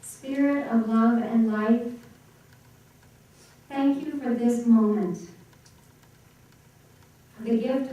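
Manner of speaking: prayer. Real, not acted. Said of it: "join me now in prayer".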